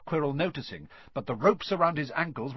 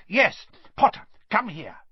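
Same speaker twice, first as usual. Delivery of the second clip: much higher, louder Yes rising, then come here; eager summons; 9 semitones higher, 6 dB louder than usual. Acted. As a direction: seize on the order greedily. Quirrell summoning Harry.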